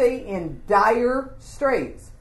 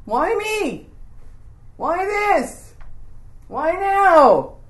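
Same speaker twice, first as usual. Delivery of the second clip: high, hammed-up wail, growing louder; panicked wailing; 10 semitones higher, 3 dB louder, much slower than usual. Servant bemoaning his fate, in mock high-pitched wailing. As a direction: lament each question higher than speech. Mimics a panicked, complaining reaction.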